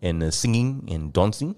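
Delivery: put-on slow, light South African accent; understated South African bloke; white South African accent. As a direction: finish it in mock South African. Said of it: "South African white people are like".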